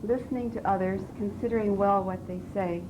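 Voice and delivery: measured recitation, each word set apart; poetry reading. Shown as a demonstration. Student reciting as coach works on voice, measured poetry reading. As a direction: let each verb stand alone between pauses. Reads poem while being coached.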